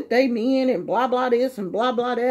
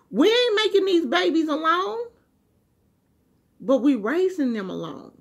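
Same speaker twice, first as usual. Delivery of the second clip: heated rant; 6 semitones higher than usual. Real, not acted. Ranting at absent fathers.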